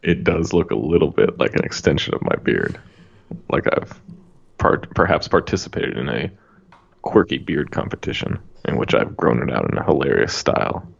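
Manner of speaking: measured close-mic mock seduction; put-on sexy tone. Host answering a jibe about his beard, mock-sexy. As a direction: keep up the sexy mic voice, deadpan. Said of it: "if I say it in a sexy tone".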